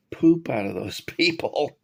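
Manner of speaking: laughing through the words; a guilty laugh breaking in. Real, not acted. Joking about wartime bombing, laughing despite himself. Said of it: "I shouldn't even laugh".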